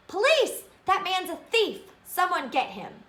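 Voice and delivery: high, loud cry for the police; alarmed shout. A narrator's reading. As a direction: yell out to the whole street. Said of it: "the man shouted".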